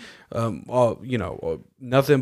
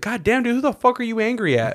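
laughing disbelief; 10 semitones higher than usual. Retold or imitated. Coworkers react to spicy dish.

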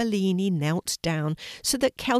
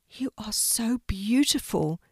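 breathless; 4 semitones higher than usual. A narrator's reading. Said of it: "feeling quite breathless".

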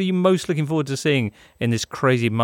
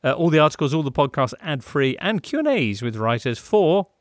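brisk, upbeat sponsor read. Acted. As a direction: sell it like a radio ad. Reads the sponsor ad.

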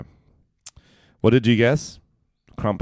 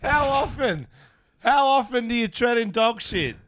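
incredulous; 13 semitones higher than usual. Real, not acted. Laughing incredulous question.

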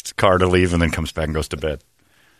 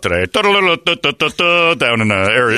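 mock news read. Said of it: "if he's delivering a story".

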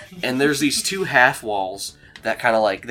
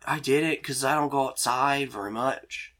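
lightly voiced awkward guy, higher; halting, pitched-up character voice; Dean; 5 semitones higher than usual. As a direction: confess it awkwardly, voice raised. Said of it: "And he goes over".

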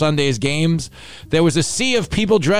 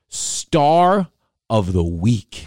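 building up a son's school honour; big reveal; 4 semitones lower, much slower than usual. Acted. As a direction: announce it like a grand prize. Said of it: "are you ready for this?".

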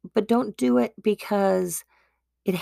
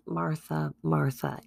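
soft, low, loving repetition of the name; tender name repeat; 3 semitones lower, 5 dB quieter than usual. Acted. Jesus calming busy Martha, soft tender repeat. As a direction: say it gently like a pet name. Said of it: "it's like saying, "Oh, honey".

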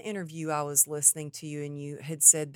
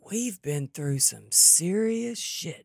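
husband's hushed, slow half-whisper; retold whisper; 2 semitones lower than usual. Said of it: "he goes".

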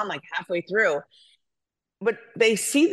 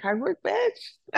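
much higher, slow, drawn-out punchline; punchline catchphrase; 12 semitones higher, much slower than usual. Retold or imitated. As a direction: land the catchphrase like a proud slogan. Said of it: "And I'm like".

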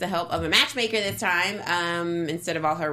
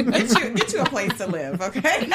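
laughing; 2 semitones higher than usual. Real, not acted. Repeats the advice, laughing.

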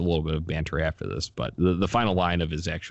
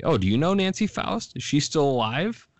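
eager announcer; 8 semitones higher than usual. Retold or imitated. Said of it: "asking Benetti".

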